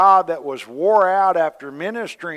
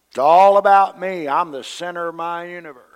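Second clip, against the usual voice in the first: puffed up and loud, mocking the ego; hammed-up me-first voice; mocking selfish voice; 2 semitones higher, 6 dB louder than usual. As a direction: play the self-centred me-first voice, louder. Mocks self nature voice.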